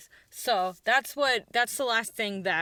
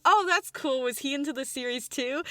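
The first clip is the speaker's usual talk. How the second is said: friendly interest; 4 semitones higher than usual. Retold or imitated. Quest reacts to earring story.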